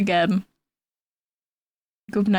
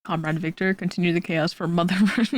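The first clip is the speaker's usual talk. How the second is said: mock Russian accent; 2 semitones lower, faster than usual. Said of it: "Russia does have a really cool accent".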